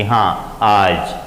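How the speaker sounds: हाँ, आज in a middle tone at mid pitch; svarita tone. Shown as a demonstration. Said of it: "ये स्वरित है".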